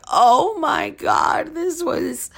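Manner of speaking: high, slow, drawn-out mock shriek. Telling boyfriend about the accident, mock shriek. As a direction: wail it out in mock horror. Her own mortified reply retold.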